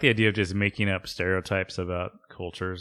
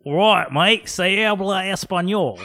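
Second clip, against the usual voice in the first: mock ad tagline; 9 semitones higher than usual. Co-host adding to the lawyer ad spoof, higher laughing tag. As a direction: tack on a giddy ad tagline. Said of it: "joins the ad spoof".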